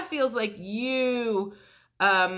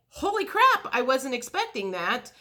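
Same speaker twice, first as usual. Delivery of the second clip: a much higher burst on holy crap, then it settles; caught off guard; 3 semitones higher than usual. Retold or imitated. The client reacting to an unexpected yes, startled disbelief. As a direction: blurt out the shock first, then trail into disbelief. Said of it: "you're like".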